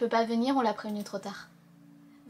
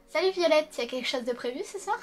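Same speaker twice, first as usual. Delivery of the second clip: character voice; 5 semitones higher than usual. Acted. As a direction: perk up for the game character. Lit un personnage du jeu. (voix de personnage enjouée, plus aiguë)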